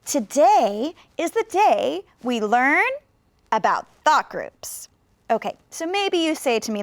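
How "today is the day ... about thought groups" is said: slow, with a pause after "learn"; many thought groups. Shown as a demonstration. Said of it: "add even more thought groups".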